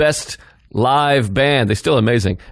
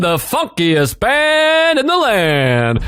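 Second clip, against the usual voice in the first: hype man intro; 5 semitones higher, slower than usual. Pretend.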